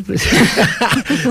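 a real, high, open laugh at himself; burst of laughter. Real, not acted. Laughs at his own accent.

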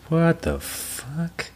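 high, very slow disbelieving cry; mock outrage. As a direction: drag it out high in fake horror. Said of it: "And I was just like".

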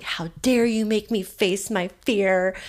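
sulky, mock-indignant pout. Zip liner refusing to look at her friend, pouting. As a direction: lightly imitate a pouting five-year-old. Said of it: "pouting like a five-year-old kid".

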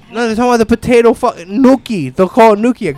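lightly voiced mocking daughter. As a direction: imitate a kid making fun of a mispronunciation. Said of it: "She starts making fun of people".

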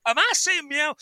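hammed-up indignation, near laughing at the end; mock-indignant cop. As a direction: fire off questions like an affronted officer. Acting out cop's indignant cat-game rant.

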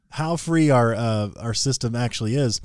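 free stressed with milder sarcasm; sarcastic. Real, not acted. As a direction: let the sarcasm settle down. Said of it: "I'm being sarcastic here".

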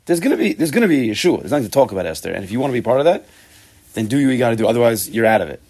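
loud, assured declaration; totally confident. Acted. Teacher voicing Mordechai's certainty of salvation, totally confident. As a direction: insist on it with full confidence. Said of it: "is totally confident".

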